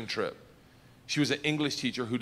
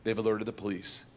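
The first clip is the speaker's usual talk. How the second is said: smug; 5 semitones lower, 4 dB quieter than usual. Retold or imitated. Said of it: "smiling, and goes".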